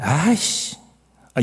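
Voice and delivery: fed-up, irritated outburst of annoyance. Imitating what people blurt out in everyday irritation, annoyed. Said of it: "짜증이 났을 때".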